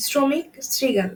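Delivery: শ্রমিক, শৃগাল each starting on s, not sh; dental s. Shown as a demonstration. Teacher repeats examples for students, slow শ্রমিক, শৃগাল with dental s. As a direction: slowly say "sromik, srigal" for শ্রমিক, শৃগাল. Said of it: "দন্ত স্বর মতো উচ্চারণ হচ্ছে".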